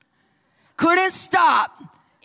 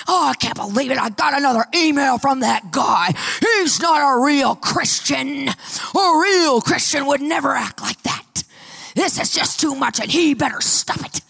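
mock outrage over the emails; ranting and raving. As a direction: rave about the rude emailer. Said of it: "ranting and raving".

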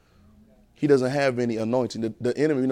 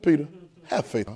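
sarcastic. Acted. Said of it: "in the most sarcastic tone".

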